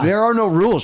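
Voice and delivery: high, mock-dramatic "There are no rules"; a hammed-up film quote; movie quote. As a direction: deliver the line like a movie villain. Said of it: "You didn't get that quote?".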